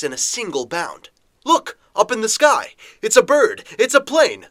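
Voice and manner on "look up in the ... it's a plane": high, loud excited cries; excited shouting. Acted. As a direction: point up and shout in wonder. Excited crowd spotting something in sky.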